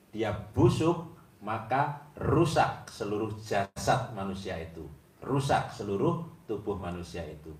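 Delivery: loud, emphatic preaching of a hadith; fervent preacher quoting the Prophet. Acted. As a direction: drive each clause home to the listeners. Quotes hadith forcefully.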